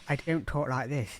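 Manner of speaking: put-on accent from southern England; southern English accent. Shown as a demonstration. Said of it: "from the south of England".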